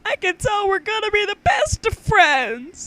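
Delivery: high, loud puppet voice. Shown as a demonstration. Rereading the puppet's line, high puppet voice. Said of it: "I read that way too fast".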